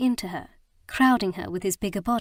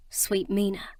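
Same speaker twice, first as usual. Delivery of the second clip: whispered endearment. A narrator's reading. Nye calls her sweet Mina in a whisper. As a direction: breathe sweet Mina tenderly. Tender moment after forgiveness.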